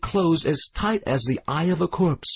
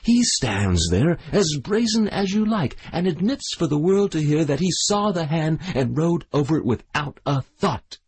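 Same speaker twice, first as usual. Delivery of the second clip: screamed; 8 semitones higher than usual. A narrator's reading. The widow screams at the crowd about her son. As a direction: scream it for the whole crowd to hear. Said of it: "screamed the widow".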